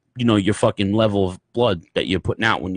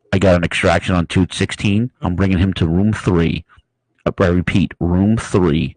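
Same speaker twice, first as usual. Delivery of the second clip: walkie-talkie nurse; 6 semitones lower than usual. Retold or imitated. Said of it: "grabs a walkie-talkie and goes".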